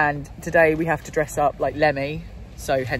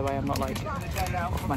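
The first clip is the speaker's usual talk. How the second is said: chewing; 4 semitones lower, 6 dB quieter than usual. Real, not acted. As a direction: mouth full of crisps. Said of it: "That's me chewing crisps".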